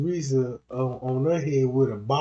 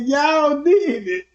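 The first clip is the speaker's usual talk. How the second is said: slow, loud, higher; slow mock pronouncement; 10 semitones higher, 5 dB louder, much slower than usual. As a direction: deliver it like a verdict.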